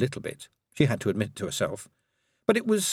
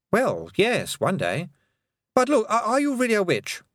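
put-on higher, startled young voice; flustered boy; 12 semitones higher than usual. A narrator's reading. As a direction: blurt the question, pitched up. Roland asks if witch.

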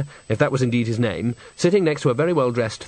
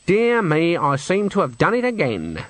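raised, feigned-innocent regret; mock apology; 5 semitones higher than usual. Granny excuses elbowing Nanny, feigned innocence. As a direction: apologise as if it were an accident.

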